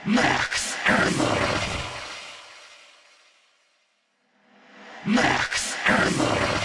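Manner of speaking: slow, eerie processed announcer voice; ghostly delayed announcer, drawn out; zombie announcer. Shown as a demonstration. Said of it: "Call of Duty Zombie announcement voices".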